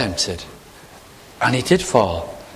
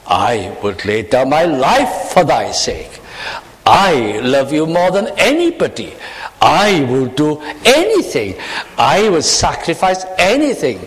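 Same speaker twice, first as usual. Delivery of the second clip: Peter's boast. Retold or imitated. Peter vowing to Jesus, a hint of boastful pride. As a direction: swell into a proud vow. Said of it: "Those were his words".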